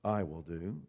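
slow, proud, leaning on every I; a rich man pleased with his own plans; slow boastful planner; self-satisfied rich man. Acted. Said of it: "Then he said".

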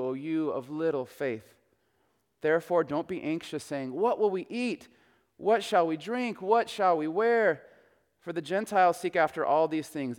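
measured, solemn reading; scripture reading. Acted. Pastor reading Matthew six to the congregation, solemn and measured.

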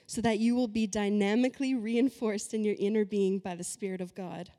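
forceful reading, key words hit hard; emphatic scripture reading. Acted. Preacher reads the Mirror translation to the congregation, emphatic reading. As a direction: read the verse out with punchy, preached emphasis. Reads a Bible passage aloud.

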